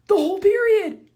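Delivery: fed up with the classmate, loud high outburst; exasperated yell. Real, not acted. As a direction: blurt it in exasperation. Complaining about smelly classmate.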